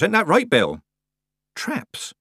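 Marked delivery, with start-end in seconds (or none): 1.6-2.1 hushed, voiceless question; whisper. A narrator's reading. Tiffany questions Nanny about the traps, whispering. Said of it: "whispered Tiffany".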